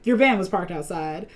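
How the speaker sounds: light imitated country twang. Imitating sister's delivery of the line, light country twang. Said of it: "like, a country twang to it".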